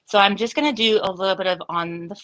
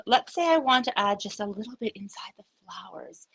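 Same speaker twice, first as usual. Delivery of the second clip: whisper. Real, not acted. Confiding craft step.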